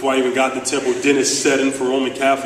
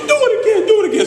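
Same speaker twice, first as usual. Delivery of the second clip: high, loud, squeaky coach voice, half laughing; Coach Chaney's voice; 5 dB louder, much faster than usual. Retold or imitated. Coach scolds his player for not going baseline, squeaky shouting. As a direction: yell like an exasperated old coach, voice cracking high. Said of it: "he speaks like this".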